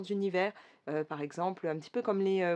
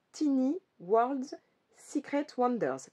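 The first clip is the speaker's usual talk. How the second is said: slow, careful English title in a French accent, pitched up; 6 semitones higher, slower than usual. Real, not acted. Vlogger apologising for her yaourt English accent, French-accented English. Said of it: "l'accent anglais, vous le savez, chez moi, c'est du yaourt".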